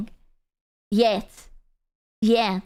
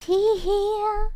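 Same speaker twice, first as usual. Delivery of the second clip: high giggle; 8 semitones higher than usual. Acted. Giggling after a joke.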